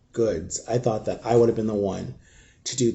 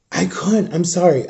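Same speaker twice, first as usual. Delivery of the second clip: breaking voice; 5 semitones higher than usual. Real, not acted. Grieving outburst.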